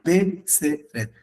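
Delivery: "Betseret" slowly split into Bet-se-ret; three syllables. Shown as a demonstration. Teacher repeats the exception, split into three syllables. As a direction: separate the three beats of "Betseret". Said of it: "tiene tres sílabas".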